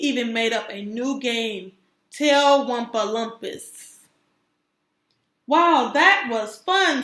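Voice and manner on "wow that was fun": breathless. Acted. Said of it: "said the new kid breathlessly".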